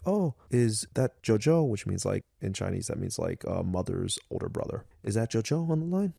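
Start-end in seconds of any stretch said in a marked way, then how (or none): 0.1-1.7 put-on higher, slow little-girl voice, lightly done; dad voicing his young daughter Lola, mildly high and slow; imitating little daughter. Dad voicing his little daughter asking about her uncle, lightly higher. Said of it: "My daughter, Lola, was like". 5.0-6.1 imitating little daughter. Dad voicing his little daughter asking about her uncle, lightly higher. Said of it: "My daughter, Lola, was like".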